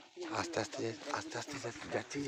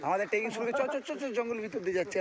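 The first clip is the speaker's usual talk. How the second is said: higher, louder, eager announcement; excited; 9 semitones higher, 5 dB louder than usual. Real, not acted. To viewers as the trek begins, excited and loud. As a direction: burst out that the trek has begun. Second take of trek start.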